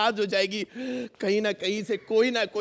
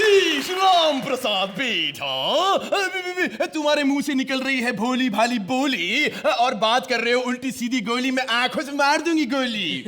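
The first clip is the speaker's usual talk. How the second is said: mimicry. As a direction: call him out in a put-on film voice. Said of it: "बहुत अच्छी mimicry भी करती हैं". (नाटकीय नकल वाली आवाज़)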